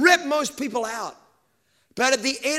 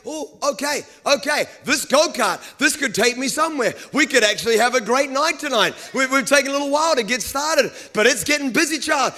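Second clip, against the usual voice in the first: louder, higher, revving up; excited racer; 3 semitones higher, 4 dB louder than usual. Retold or imitated. Preacher as a racer hyping himself up, excited. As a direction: psych yourself up, getting excited. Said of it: "And you're like".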